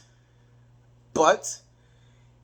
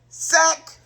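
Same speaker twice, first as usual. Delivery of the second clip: sudden exclamation; 8 semitones higher, 3 dB louder than usual. Retold or imitated. Calling out a bad play.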